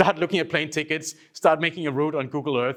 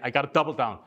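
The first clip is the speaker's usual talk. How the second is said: ordinary talk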